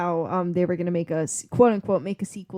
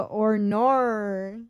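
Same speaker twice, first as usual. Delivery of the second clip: Australian vowels, badly faked; mock Australian accent; 2 semitones higher, 5 dB louder, much slower than usual. Co-host who can't do the accent tries catchphrases, mock Australian. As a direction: have a playful stab at Australian vowels. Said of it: "can't do the accent, but I can go".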